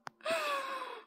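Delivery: soft, breathy exhale; sigh. Real, not acted. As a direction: let out a long sigh. Winding down after the tour.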